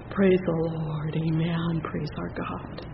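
ordinary delivery

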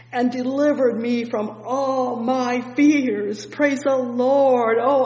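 fervent slow preaching. Acted. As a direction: lean into every word, slow and ringing. Preacher builds on psalm.

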